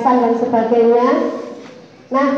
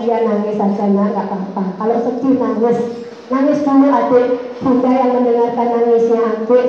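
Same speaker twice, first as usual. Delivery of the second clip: soothing mother. Retold or imitated. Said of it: "saya gitu".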